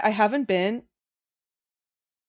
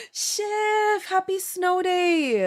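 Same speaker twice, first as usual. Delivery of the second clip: excited greeting; 11 semitones higher, much slower than usual. Real, not acted. Greeting a viewer.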